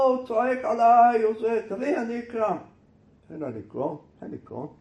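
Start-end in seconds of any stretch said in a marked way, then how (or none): 0.0-2.6 loud, high-pitched protest; upset outcry. Acted. Wife protests to neighbour's husband about letter, crying out. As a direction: cry out in aggrieved alarm.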